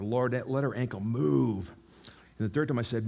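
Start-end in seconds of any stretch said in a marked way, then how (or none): 0.0-1.7 slower, slightly firmer retold prayer; a little louder. Preacher praying for the lady's ankle, a little louder and slower. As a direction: pray it a touch louder, drawing it out. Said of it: "the second time I said a little louder".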